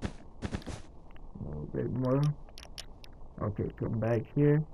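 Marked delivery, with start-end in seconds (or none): 0.0-2.2 slow, barely voiced whisper to herself; whispered aside. Real, not acted. Crafter whispering to herself while adjusting the lines. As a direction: breathe it out slowly, half to yourself.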